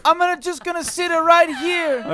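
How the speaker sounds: high Italian plumber voice; Mario. Pretend. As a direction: stay in the cartoon plumber voice.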